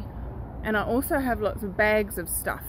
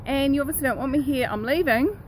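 a lightly voiced mouse, higher and smug; mouse's cheeky voice; 8 semitones higher than usual. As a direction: play a smug little mouse who knows the trick. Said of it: "If they see the mouse trap and go".

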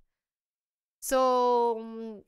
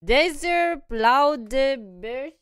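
mock German reading; 6 semitones higher, 12 dB louder, much slower than usual. Shown as a demonstration. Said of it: "Let's try German".

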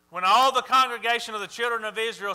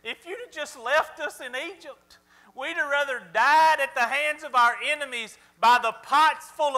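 high whining complaint like a crybaby; whiny baby voice; 4 semitones higher than usual. Retold or imitated. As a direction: whine it like a spoiled toddler. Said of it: "whiny baby voice".

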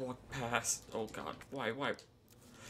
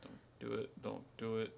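tense whisper; 3 semitones lower, 7 dB quieter than usual. Real, not acted. Pleading quietly with enemy.

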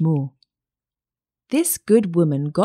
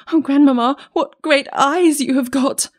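put-on high, loud child's exclamation; amazed little girl; 9 semitones higher, 4 dB louder than usual. A narrator's reading. Child staring at disguised grandmother, amazed high voice. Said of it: "being greatly amazed".

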